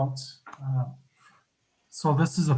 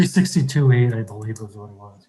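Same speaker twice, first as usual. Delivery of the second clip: muffled voice; speaking through a muffled mic; 3 semitones lower, 4 dB louder than usual. Real, not acted. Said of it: "you're a little bit muffled".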